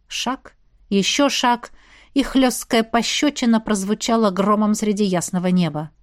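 ordinary delivery, nothing marked

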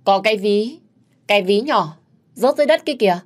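high-pitched cry of discovery; surprised exclamation. A narrator's reading. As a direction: call out a sudden find. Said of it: "bất ngờ reo lên".

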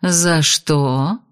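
тихо и ниже, обманчиво мягко; ласково, но с угрозой. Acted. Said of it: "мягко спросила Шидар". (ведьма мягко спрашивает душимого беса)

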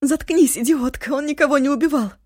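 very high, loud scream; scared Eva screams at her friend to shut up; frightened shout. Acted. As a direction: yell at her to cut through the sobbing. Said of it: "перепуганная Эва закричала".

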